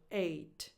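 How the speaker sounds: eight said plainly like ate, gh silent; teacher model. Shown as a demonstration. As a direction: model eight like the past of eat. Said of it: "they're just silent".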